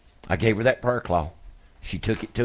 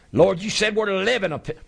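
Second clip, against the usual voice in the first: rising fervour; 12 semitones higher than usual. Real, not acted. Prayer peak.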